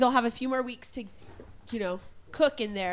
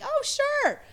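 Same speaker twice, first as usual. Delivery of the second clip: mock eager. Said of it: "I'm like".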